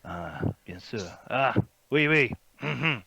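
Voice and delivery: lightly voiced French fop; a touch of foppish agreement; foppish gentleman. Fop answering travellers by the fire, foppish. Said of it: "foppish gentleman".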